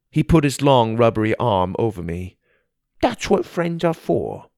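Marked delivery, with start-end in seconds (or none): 3.0-4.5 slow, high goofy creature voice; dopey cartoon bellow. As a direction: drawl it like a dopey cartoon frog.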